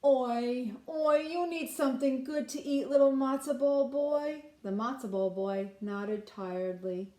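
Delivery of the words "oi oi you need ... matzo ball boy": kind offer. Acted. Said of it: "the man said kindly".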